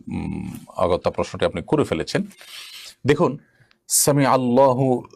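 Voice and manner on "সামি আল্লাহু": সামি আল্লাহু slow, with the final হু clearly voiced; correct pronunciation. Shown as a demonstration. Teacher demonstrating correct recitation, slow and careful. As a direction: draw out সামি আল্লাহু, keep the হু. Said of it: "এটি হলো শব্দের সঠিক উচ্চারণ".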